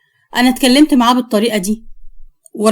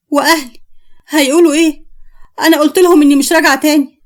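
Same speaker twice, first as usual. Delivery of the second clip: higher-pitched fretting; anxious; 3 semitones higher than usual. Acted. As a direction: worry aloud, getting worked up. Frightened woman worries about family.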